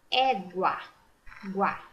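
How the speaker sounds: "Égua" split, then "Guá" alone with a clear gw; "Égua", "Guá", U clearly voiced; U sounded out. Shown as a demonstration. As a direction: isolate the gwa of "Égua".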